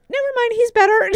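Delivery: laughing quote. Retold or imitated. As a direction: laugh while quoting yourself. Retelling calling off the vet.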